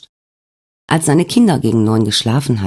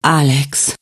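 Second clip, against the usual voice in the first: sighed; 2 semitones higher than usual. Acted. Svenja sighs her husband's name in the hospital bed. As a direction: breathe his name out like a sigh. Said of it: "seufzte sie".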